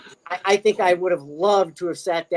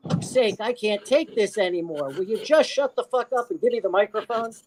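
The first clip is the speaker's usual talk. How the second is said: retold exasperated heckle, higher pitch; Robin Williams; 4 semitones higher than usual. Guest retells a heckle from the back room, exasperated. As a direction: imitate a fed-up heckler without shouting. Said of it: "in the back room, you hear".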